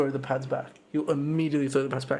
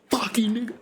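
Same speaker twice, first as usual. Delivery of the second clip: hissed under the breath, high; whispered quote; 7 semitones higher than usual. Retold or imitated. Retelling the opponent's mutter, whispered. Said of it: "He went".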